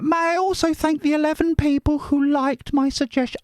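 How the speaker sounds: high put-on voice reading a viewer comment; falsetto reading voice. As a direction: read the comment in a sweet high voice.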